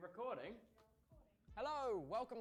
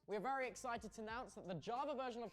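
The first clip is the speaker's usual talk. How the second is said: announcing big news; 4 semitones higher, 13 dB louder than usual. Acted. Release date announcement.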